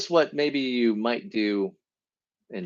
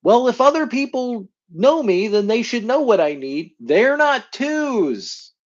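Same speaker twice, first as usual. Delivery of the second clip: resentful; 11 semitones higher, 5 dB louder than usual. Retold or imitated.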